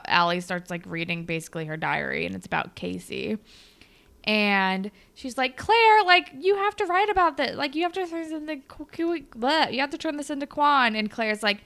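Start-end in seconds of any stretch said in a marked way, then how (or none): 5.6-10.9 much higher, louder giddy gush; high, loud, hammed-up friend urging her to write it; mock excited squeal. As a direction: gush at her like the best idea ever.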